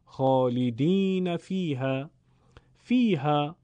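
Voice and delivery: خالدین فیها said slowly and carefully; recited example. Shown as a demonstration. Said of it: "خوندنش هیچ فرقی نداره".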